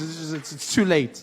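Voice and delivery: normal talking voice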